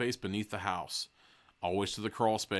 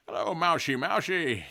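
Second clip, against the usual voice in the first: slightly higher, sweet coaxing to a mouse; sweetly; 7 semitones higher than usual. A narrator's reading. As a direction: coax the mouse gently. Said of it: "you say sweetly".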